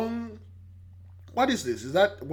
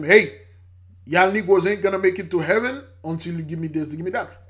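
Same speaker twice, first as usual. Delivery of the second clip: loud, fast hellfire demand; mock preacher threat; 6 dB louder, faster than usual. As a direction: threaten them like a greedy preacher. Preacher threatening followers with hell.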